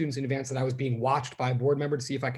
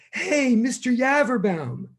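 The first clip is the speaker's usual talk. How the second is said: higher, slow, drawn-out shout across the street; teenagers shouting; 10 semitones higher, 4 dB louder, slower than usual. Retold or imitated. Teenagers in a passing car calling out to their teacher, shouting. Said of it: "they shout out of the car".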